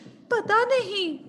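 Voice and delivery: high, slow mock-tearful answer; whimpering queen. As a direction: admit it through put-on tears. Crying queen answers maid. (रुआँसी रानी का जवाब)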